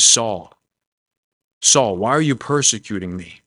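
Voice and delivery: unhurried question, a long pause after the first name; calm appeal. Acted. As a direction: call the name gently, then simply ask. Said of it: "he just says it calmly".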